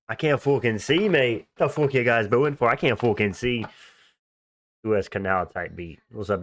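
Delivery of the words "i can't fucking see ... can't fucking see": mock Aussie fighter. Acting out a half-blind fighter.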